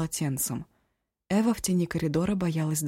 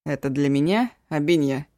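ingratiating; 2 semitones lower, 5 dB louder than usual. Acted. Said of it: "его вкрадчивый голос".

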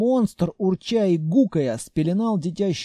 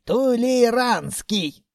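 put-on old man voice; 7 semitones higher, much slower than usual. A narrator's reading. Old Mumiy naming.

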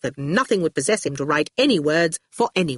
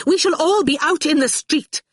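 high, forceful proclamation; booming; 10 semitones higher, 3 dB louder than usual. A narrator's reading. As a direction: boom it out in alarm. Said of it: "boomed Catriona".

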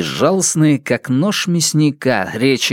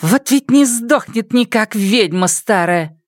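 spiteful, much higher curse under the breath; angry curse; 10 semitones higher than usual. Acted. Geng cursing the departing mayor, higher spiteful voice. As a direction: spit it out after stamping a foot. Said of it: "со злостью топнула ногой".

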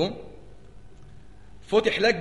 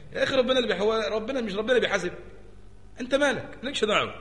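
dismissive high retort; 5 semitones higher, faster than usual. Retold or imitated. Objector voiced, dismissive.

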